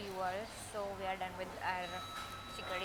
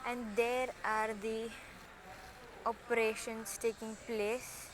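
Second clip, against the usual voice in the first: very slow, drawn-out documentary telling; cinematic way; much slower than usual. Acted. Showing viewers the airport, slow cinematic narration. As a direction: linger on each word like a film narrator. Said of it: "cinematic way में बता रही हूँ".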